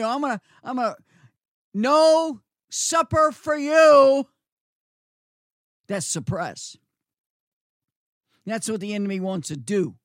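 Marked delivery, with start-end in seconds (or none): 0.1-4.3 angry parent. Retold or imitated. Parent voiced scolding a kid.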